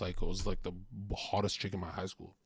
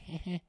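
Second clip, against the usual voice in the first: fake movie laugh; 7 semitones higher, 5 dB quieter than usual. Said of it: "laugh like it's a movie".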